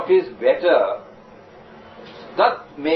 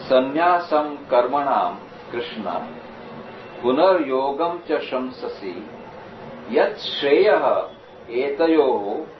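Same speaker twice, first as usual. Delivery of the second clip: slow, measured verse reading; Sanskrit recitation. Shown as a demonstration. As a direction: recite the verse steadily, slowly. Recites the verse again, slower.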